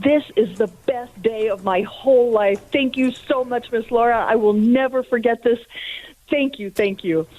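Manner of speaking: mildly acted, grateful joy; tearfully happy. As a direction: imitate someone overwhelmed with thanks, pitch lifted. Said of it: "on the verge of tears and so happy".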